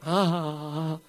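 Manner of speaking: soft, deliberate ha ha ha; demo laugh. Shown as a demonstration. Preacher showing simple laughter, soft deliberate ha ha. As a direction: show how simple laughter is. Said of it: "you open your mouth and sound comes out".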